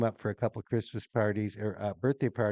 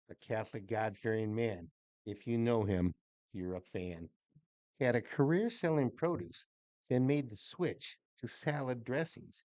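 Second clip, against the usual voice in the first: poem reading. Acted. Reads birthday poem aloud.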